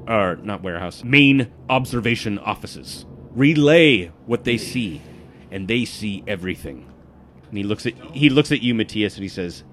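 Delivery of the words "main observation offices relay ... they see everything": intense guild informant. Acted.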